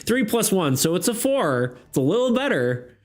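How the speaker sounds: giggly, laughing through the words. Real, not acted. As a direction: still cracking up from the roll. Laughing at a bad roll.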